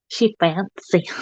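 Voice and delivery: lightly put-on country-western accent; a hint of country-western twang, playing fancy; Teresa's fancy voice. Imitating an Irish friend being fancy, light country-western accent. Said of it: "the same voice Teresa does when she talks in her fancy voice".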